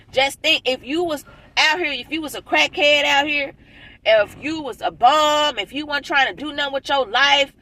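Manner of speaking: fired up. Real, not acted. Fired-up rant about enemies.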